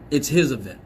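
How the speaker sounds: "his" stressed against "my", falling. Shown as a demonstration. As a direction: lean on "his" with a falling end. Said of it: "It's not my event".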